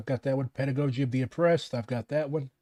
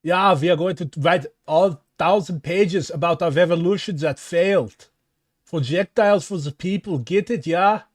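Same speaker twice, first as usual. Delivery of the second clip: put-on German accent; 3 dB louder than usual. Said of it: "These fucking Germans".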